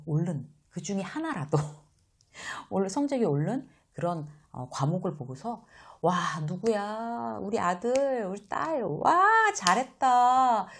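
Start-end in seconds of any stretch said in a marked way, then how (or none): 6.0-10.7 high, louder, slowed-down gush of delight; parent gushing praise. Shown as a demonstration. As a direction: praise the kid's grades like a thrilled parent. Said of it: "이렇게요". (성적 오른 아이를 칭찬하는 부모처럼, 높고 크게 감탄)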